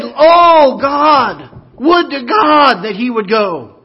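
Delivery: loud, high fervent plea; earnest declaration. Retold or imitated. The little maid declares her faith to Naaman's wife, loud and earnest. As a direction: cry it out in faith. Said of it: "let's declare our faith".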